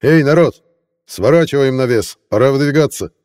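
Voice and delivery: shouting to troops over rain; rally the men with a loud call; roaring rallying speech. Acted. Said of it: "громко обратился к воинам, перекрикивая звуки дождя".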